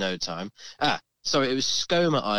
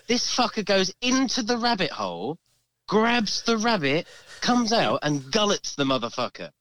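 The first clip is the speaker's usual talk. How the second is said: higher, laughing, telling with relish; laughing while telling; 5 semitones higher than usual. Real, not acted. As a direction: narrate it through laughter. Telling gruesome seagull story laughing.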